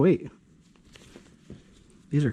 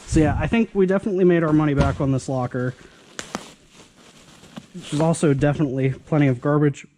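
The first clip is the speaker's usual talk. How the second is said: talking through hiccups; hiccuping between words. Real, not acted. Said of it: "Sorry, I have the hiccups".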